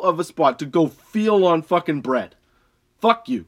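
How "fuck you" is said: angry yell. Acted. Ranting at shoppers leaving carts.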